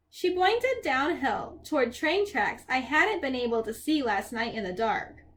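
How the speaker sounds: expressive, unhurried storybook reading; story narration. A narrator's reading. Percy describes Grover and the poodle, story narration. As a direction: paint the scene line by line.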